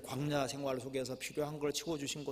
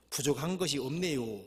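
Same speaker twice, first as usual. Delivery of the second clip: Chungcheong dialect; 2 semitones higher, 4 dB louder than usual. Acted. Preacher finishing the Chungcheong version, Chungcheong dialect. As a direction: stretch the last syllable in Chungcheong dialect. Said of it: "이 충청도 버전이랍니다".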